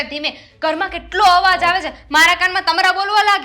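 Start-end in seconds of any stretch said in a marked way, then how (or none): 0.0-0.4 ધીમે said much softer, showing how to speak quietly; ધીમે shown in a hushed voice; softly. Shown as a demonstration. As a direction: drop the voice right down on ધીમે. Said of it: "માણસ છે ને ધીમે વાત કરે".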